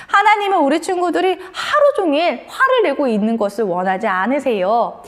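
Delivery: normal talking voice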